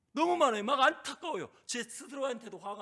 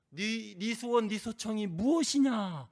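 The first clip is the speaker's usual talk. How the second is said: lightly voiced king, louder and slow; king speaking to his wife Esther, slow and loud; gracious king; 3 semitones higher, 9 dB louder, slower than usual. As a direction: offer the queen half the kingdom. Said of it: "금규를 들면서 이렇게 말해요".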